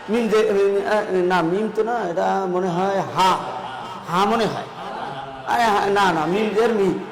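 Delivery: lightly acted unsure learner, stumbling over letters; villager struggling to spell. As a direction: mimic a pupil guessing and correcting himself. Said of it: "কেন গ্রামের মানুষ বানান না পারে". (দ্বিধা করে বানান করার হালকা অভিনয়)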